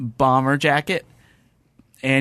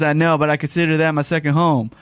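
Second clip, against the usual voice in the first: put-on Southern accent. Quoting the driver about LA, lightly Southern. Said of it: "That's just how I say it in Southern accent".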